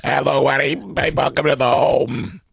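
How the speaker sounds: a hint of a breathy granny. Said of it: "she sounds sultry now with her new voice box".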